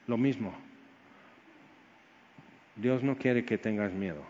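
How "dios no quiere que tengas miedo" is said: soft, lower, gentle refrain; tender assurance. Real, not acted. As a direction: speak it quietly as comfort. (suave y tierno)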